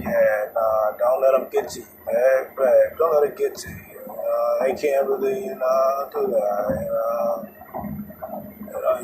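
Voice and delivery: quiet, laid-back imitation of the boyfriend; soft mock-soothing male voice; calming her down. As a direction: talk her down softly, mimicking the guy. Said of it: "calm her down".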